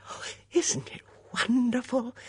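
high, breathy thrill; breathed delight. A narrator's reading. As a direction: breathe it in rapture. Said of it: "breathed the female voice".

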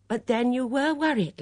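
high, loud, worried insistence; trembling, upset. A narrator's reading. Dora challenges her friend's calm, upset and anxious. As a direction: press the point, pitched high. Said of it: "Dora Bunner was trembling as she spoke".

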